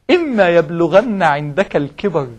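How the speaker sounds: slow, measured recital of the verse; Quran recitation. Acted. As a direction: recite it like scripture, drawn out. Quotes Quran verse slowly.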